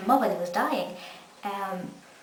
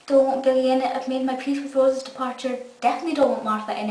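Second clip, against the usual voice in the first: mock exasperated protest; 4 semitones higher, 4 dB louder than usual. Fan's inner reaction to rumours.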